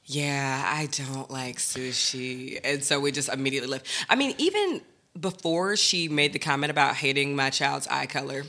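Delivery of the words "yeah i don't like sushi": mom catching on. Retold or imitated. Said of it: "she was like".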